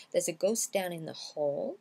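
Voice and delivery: "ghost down" as one word, "ghos-down"; linked as one word. Shown as a demonstration. Teacher mixes the two words, "ghost down" said as one. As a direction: blend "ghost down in the hall" like syllables of a single word. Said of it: "comme si on avait un mot".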